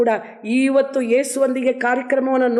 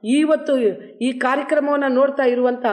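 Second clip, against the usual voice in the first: earnest prayer. Real, not acted. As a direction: pray humbly over the listeners. Leads closing prayer. (ವಿನಮ್ರವಾದ ಪ್ರಾರ್ಥನೆ)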